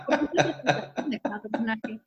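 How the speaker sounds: normal talking voice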